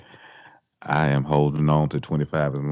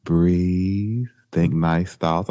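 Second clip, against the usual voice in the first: Alexa meditation voice; slower than usual. Retold or imitated. Host imitating the meditation app for his friend, mock calm guide. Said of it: "she talk back to you doing meditation".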